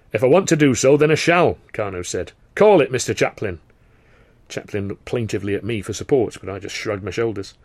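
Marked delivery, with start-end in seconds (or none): 0.1-3.6 loud, firm command; firm boss voice. Acted. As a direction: lay down the law. Carno insists.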